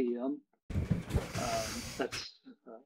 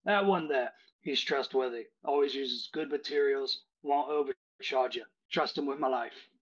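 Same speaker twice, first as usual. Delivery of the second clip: Cockney barkeep. Acted. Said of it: "He says".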